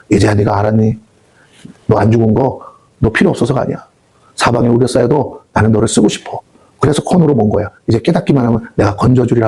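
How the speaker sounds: gentle God's voice. Acted. God speaking tenderly to believer.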